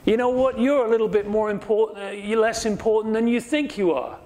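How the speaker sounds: half-joking sassy retort; mock put-down. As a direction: tease them that they overrate themselves. Preacher voices Nehemiah's attitude.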